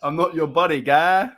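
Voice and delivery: jokey attempt at a Canadian accent. Shown as a demonstration. Streamer showing off an accent on request, mock Canadian. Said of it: "Canadian accent?".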